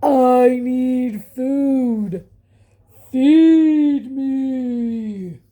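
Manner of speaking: loud, slow booming monster pig; giant pig shouting. A narrator's reading. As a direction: bellow it like a huge hungry pig. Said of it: "the giant pig shouted".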